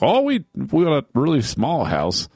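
smug mocking voice. Mocking smug tiny house owners.

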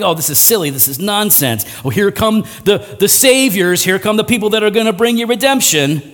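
lightly scoffing, dismissive sarcasm; mocking. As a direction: mildly ridicule the would-be saviors. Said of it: "By mocking somebody".

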